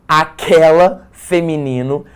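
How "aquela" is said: "aquela" said slowly and louder with a rise; stressed demo word. Shown as a demonstration. Teacher contrasting feminine forms, slow and loud. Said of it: "e, ó".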